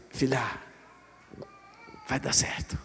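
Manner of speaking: soft, breathy reassurance, almost a whisper; whispered comfort. Acted. Father whispering comfort to his daughter before the retest. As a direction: whisper it close like a promise.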